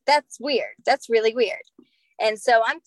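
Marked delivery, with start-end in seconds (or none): 0.1-1.6 incredulous retelling. Retold or imitated. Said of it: "we're like".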